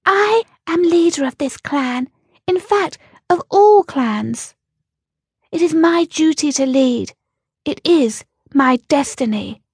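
high, grand proud rabbit voice; self-important. A narrator's reading. The black rabbit proclaiming her duty to Ellie, self-important. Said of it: "somewhat importantly".

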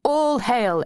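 high-pitched mock-reverent hail; echoing acclamation. A narrator's reading. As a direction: echo the grand salute. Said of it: "echoed T J and I".

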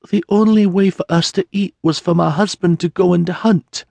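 a widow forcing out the worst news; grieving peasant woman. Acted. Mary tells Sienna of her husband and baby, tearful and high.

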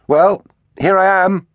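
high, loud shout into the dark; calling out. A narrator's reading. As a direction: call out boldly, pitched right up. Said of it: "he called".

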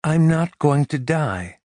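high, impatient insistence. A narrator's reading. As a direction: brush off his fear. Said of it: "she argued impatiently".

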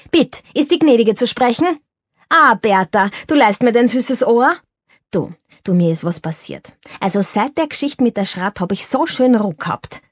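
put-on an old stage star confiding in a friend; Viennese actor Girardi. Narrator voices Girardi on phone. (Girardi ruft aufgeregt seine Freundin Bertha an, lebhaft wienerisch)

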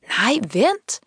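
high, swooping call to wait. A narrator's reading. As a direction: call after someone leaving, pitch leaping. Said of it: "råbte han". (råber efter hende i svingende, lyst toneleje)

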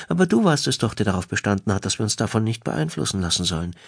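starts high, then settles, mildly insistent; lightly voiced wife, reproachful. Wife reminds husband of his own advice, lightly voiced.

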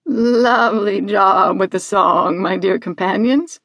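measured, deliberate animal character voice; Mimi. Acted. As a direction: stretch the words out like a sheep newly speaking. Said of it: "but the actual words".

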